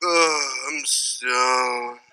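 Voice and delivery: very slow, soft stoned groan. Retold or imitated. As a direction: drag it out like a dazed kid. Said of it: "or he's like".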